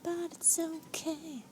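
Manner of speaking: very soft, slow resigned voice; defeated murmur. Real, not acted. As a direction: sigh it out, giving up. Resigned after wipe.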